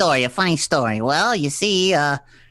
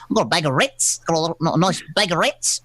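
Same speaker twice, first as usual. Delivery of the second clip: put-on terrible Kiwi accent. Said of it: "my terrible Kiwi accent".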